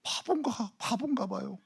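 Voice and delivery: soft, sighing and self-mocking; mock quiet confession. Deaconess confessing to the pastor, softly self-mocking. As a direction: play the shy deaconess owning up. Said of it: "저한테 그러세요".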